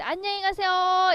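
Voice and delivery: high, drawn-out farewell call; send-off call. Acted. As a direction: sing out a slow ceremonial goodbye. 귀신을 전송하는 인사. (높게 길게 빼며 배웅하듯)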